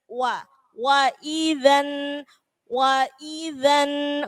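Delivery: wa idzan slowly, lips pushed forward then drawn back; rounded wa. Shown as a demonstration. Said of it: "Mencucu dulu, kemudian ditarik". (wa diucapkan bibir mencucu lalu ditarik)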